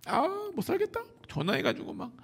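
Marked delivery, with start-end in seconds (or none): 0.0-1.0 high, sighing moan; sighing complaint. Pretend. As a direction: groan it out with a long sigh. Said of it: "한숨 푹푹 쉬면서".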